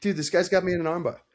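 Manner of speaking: laughing through the line. Pretend. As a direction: giggle while saying it. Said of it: "I'd be like".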